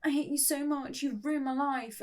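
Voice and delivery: high-pitched, restrained mock yell; mock shouting. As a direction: play-act a shouted outburst without much volume. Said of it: "We start shouting".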